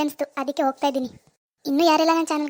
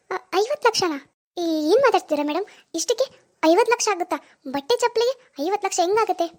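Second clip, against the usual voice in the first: higher-pitched, incredulous questioning; shocked disbelief; 4 semitones higher than usual. Acted. Shopper hearing an absurd bill, shocked.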